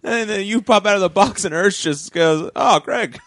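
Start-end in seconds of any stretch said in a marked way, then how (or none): 2.6-3.2 nonchalant. Retold or imitated. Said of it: "Like, just nonchalant".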